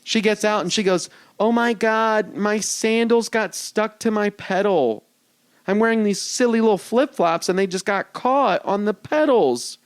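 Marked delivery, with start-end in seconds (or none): 1.4-9.8 slightly high, drawn-out imitation of her; over-explain in her lightly put-on voice; retold white lady driver. Woman driver explains her sandal mishap, drawn-out mock excuse. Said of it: "this is a white lady".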